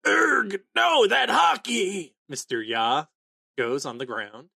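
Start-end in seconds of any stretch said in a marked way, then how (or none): 0.1-2.1 alarmed recognition. Retold or imitated. Sensing huge Haki, alarmed.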